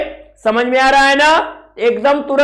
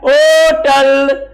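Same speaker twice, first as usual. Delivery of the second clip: होटल very slowly, as "ओऽऽटल"; pressure on the O; much slower than usual. Shown as a demonstration. Teacher answering own question, long pressed O in होटल. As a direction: drag out the O of होटल, barely any h. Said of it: "ओ का pressure ज्यादा है".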